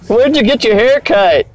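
put-on high, drawn-out drunk heckle; drunken voice. Shown as a demonstration. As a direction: drag out the taunt like a mock drunk. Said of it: "it's my drunken voice".

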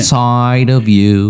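slow, drawn-out whiny California vowels; whiny California accent. Retold or imitated. Co-host continuing a singer impression, whiny California accent. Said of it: "it's like a California whiny accent".

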